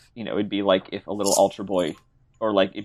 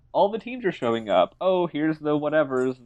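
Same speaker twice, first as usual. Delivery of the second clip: lightly voiced announcer, raised pitch; biased announcer; 4 semitones higher than usual. Announcer introducing the teams, lightly put-on announcer voice. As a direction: run through the line-up as a mock announcer. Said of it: "The announcer is like".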